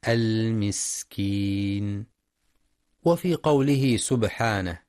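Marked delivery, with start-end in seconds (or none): 0.1-2.1 المسكين slowly, with the س hissed and whistling; whistled sin. Shown as a demonstration. Teacher demonstrating the sin, slow hissing المسكين. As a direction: stretch the س in المسكين into a clear whistle. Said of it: "صفة الهمس والصفير في السين".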